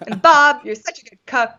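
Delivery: comic exasperated envy; hammed-up jealous griping; negative, envious. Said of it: "comparison negative mode about yourself".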